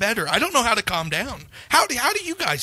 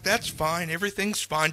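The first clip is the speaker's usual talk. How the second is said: quiet forced calm; 2 semitones lower, 6 dB quieter than usual. Retold or imitated. Overwhelmed, muttering to himself.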